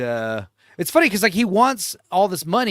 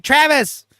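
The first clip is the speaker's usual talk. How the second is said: imitating Vinny; 7 semitones higher, 5 dB louder than usual. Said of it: "his brother Vinny's like".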